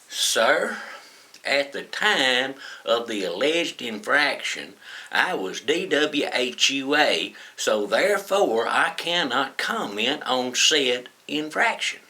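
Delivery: slow, overly formal, lawyerly delivery; mock intellectual voice. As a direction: put on your smartest, most official voice, slowly. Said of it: "in my best intellectual voice".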